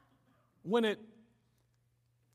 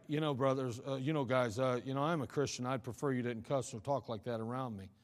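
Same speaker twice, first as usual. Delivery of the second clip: mock pious Christian; 8 semitones lower, 6 dB quieter than usual. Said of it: "you're like".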